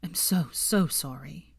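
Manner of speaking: slow, hushed, tearful apology; a broken whispered sorry. Acted. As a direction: whisper it through tears, slowly. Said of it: "wiping away his tears".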